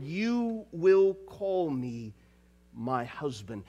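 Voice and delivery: soft, tender reading of God's promise; hushed scripture reading. Acted. Preacher softly reading God's tender words to his bride. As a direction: read it gently, like a whisper of love.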